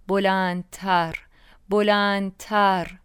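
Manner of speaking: very slow, stretched-out repeats; building emphasis. A narrator's reading. Narrator recalls the music swelling, drawn-out building emphasis. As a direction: draw بلندتر out, a little stronger the second time.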